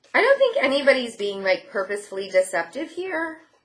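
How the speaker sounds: voice breaking up high partway through. Speaker giving card readings to their audience, voice cracking. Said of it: "my voice just cracked here".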